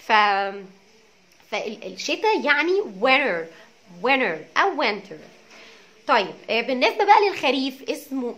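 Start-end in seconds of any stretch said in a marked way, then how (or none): 1.5-5.2 winter said slowly, with t then without; slow careful winter, both versions; winter two ways. Shown as a demonstration. Teacher comparing two winters for learners. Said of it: "وينر لانه الان".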